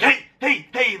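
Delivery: a hint of the guy's high grunting hey; mild grunting calls. Guy doing the split calling out, lightly voiced high grunts. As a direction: lightly pitch up each hey. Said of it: "he was going like".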